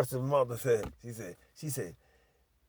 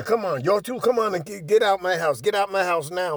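higher, loud retold orders; stern mother ordering; 4 semitones higher, 6 dB louder than usual. Mother ordering two girls out, loud acted command. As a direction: act out a mother throwing people out.

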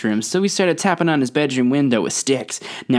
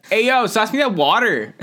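imitating Caleb; 7 semitones higher than usual. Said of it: "I can just hear Caleb saying that".

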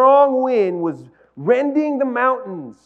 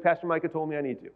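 quick, softer line through a laugh; laughing excuse; 4 semitones lower, 7 dB quieter, faster than usual. Pretend. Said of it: "You'll be like".

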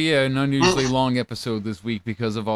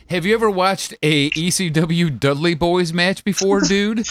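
wrestling heel promo; 4 semitones higher, 4 dB louder than usual. Retold or imitated. Mock Bubba Ray promo.

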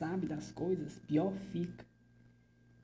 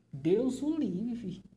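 mock horror; 5 semitones higher, 4 dB louder, much slower than usual.

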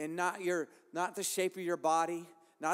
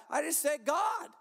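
emphatic preaching shout; 8 semitones higher than usual. Real, not acted.

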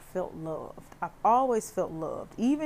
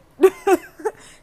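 sudden burst of real laughter; big amused laugh; loud laugh; 13 semitones higher, 14 dB louder than usual. Real, not acted. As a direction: laugh it off loudly. Laughs about imperfect dad.

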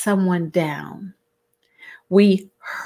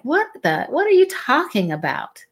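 baffled reaction; 5 semitones higher, faster than usual. Retold or imitated. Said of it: "looking at you like".

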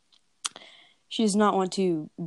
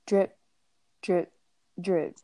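drips falling away, dropping lower; slow fading drips; 3 semitones lower, slower than usual. Retold or imitated. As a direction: let each drip sink and fade. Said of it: "the blood dripping from his foot".

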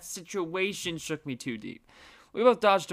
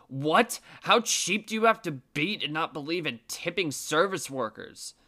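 snapping back; 3 dB louder than usual. Retold or imitated. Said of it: "My girlfriend's dad spits back".

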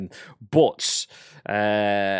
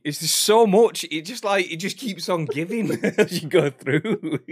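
high, slow, laughing; giggling through the words; 8 semitones higher, 4 dB louder, slower than usual. Real, not acted. Laughing at clip.

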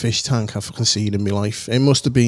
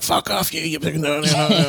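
angry retort; 3 semitones higher than usual. Retold or imitated. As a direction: snap back at the brother, voice jumping up. Angry brother yelling at teasing brother.

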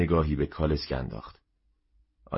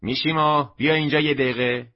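louder, higher call across the shop; 6 semitones higher, 5 dB louder than usual. A narrator's reading. Wife calls her husband up from the cellar, shouting. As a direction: yell for her husband from the counter. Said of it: "و داد زد".

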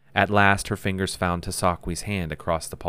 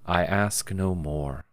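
softly; slower than usual. Acted. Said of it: "he told her softly".

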